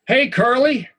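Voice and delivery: a high, loud "Hey, Curly" across the yard; a bully calling out a nickname. Acted. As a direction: hail him from across the schoolyard.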